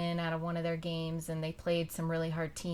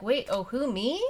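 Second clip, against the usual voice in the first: higher, louder mock innocence; feigned cluelessness; 5 semitones higher, 4 dB louder than usual. Player pretending not to hear the sub call, feigned cluelessness. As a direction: imitate a kid playing dumb. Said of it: "they kinda have that look on their face like".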